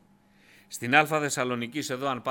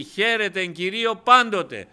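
φωνάζει ψηλά «Χαίρετε εν Κυρίω πάντοτε», με έμφαση στο «πάντοτε»; διακήρυξε το εδάφιο με πάθος; δυνατή διακήρυξη; 7 semitones higher, 9 dB louder than usual. Acted. Verse proclaimed second time. (θριαμβευτική κραυγή «πάντοτε»)

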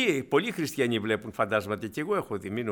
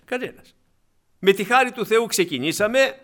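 loud, rising preacher's call; impassioned sermon cry; fervent preaching; 4 semitones higher, 6 dB louder than usual. Acted. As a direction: thunder the question at the flock. Preaching at full force.

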